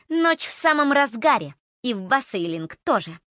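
put-on sinister girl voice. Eerie girl threatens.

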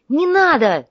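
sharp high, loud cry to stop him; shout. A narrator's reading. Artyom shouting at the monk grabbing the bundle, loud cry. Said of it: "крикнул Артём".

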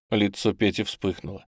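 ordinary delivery

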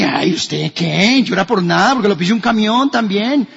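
dismissive mock retort, slowed start; mocking scoff. A brother scoffing at a crying churchgoer, mocking. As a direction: sneer at someone crying over nothing.

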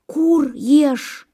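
high, drowsy mishearing; a hint of a dreaming fox; lightly voiced fox. A narrator's reading. Sleeping fox hears the crow in her dream, high voice. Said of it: "думает лиса".

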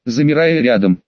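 plain reading voice

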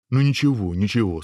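mildly soothing reassurance; kindly hushing; consoling ogre. Acted. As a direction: comfort the upset prince. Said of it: "стал утешать принца людоед".

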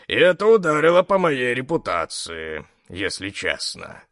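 reproachful gruff boss; gruff big man. Acted. (грубоватый голос здоровяка)

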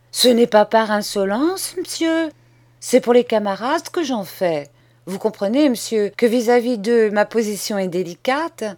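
put-on a boy laying out terms, steady and sure; bold schoolboy. Boy justifies himself politely.

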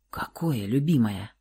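soft, breathless mock question; teasing whisper. A narrator's reading. Woman mockingly whispers to her lover. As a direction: whisper it slyly.

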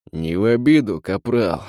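wounded man's hoarse rasp. Acted. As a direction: rasp it out, injured. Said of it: "прохрипел ментор".

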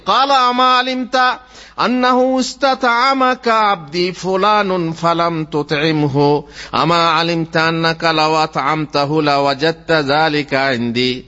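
slow, measured Arabic recitation; preacher reciting scripture in Arabic. Acted. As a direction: recite the sacred words with drawn-out syllables. Recites Arabic sacred narration.

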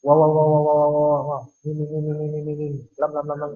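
mocking babble of syllables; wa wa mim lam babbled, fading; muffled wah wah talk. Shown as a demonstration. (ocehan wa wa mengejek)

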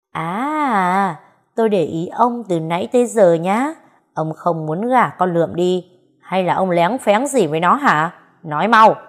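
rising into a loud furious demand; jealous accusation. Acted. Wife loudly demands her husband confess, growing angrier to the end. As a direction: corner him, building to a shouted order.

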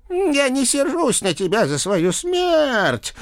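high, slow ghostly wail; drawn-out voice from the grave; sepulchral voice. A narrator's reading. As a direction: intone it like a wailing ghost. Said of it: "за могильным голосом продолжала женщина".

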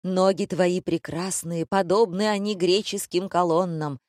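measured, mock-epic recitation; hexameter declamation. A narrator's reading. Director praising her legs in verse, declaiming. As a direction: declaim it like ancient Greek verse. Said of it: "перешёл режиссёр на гигзаметр".

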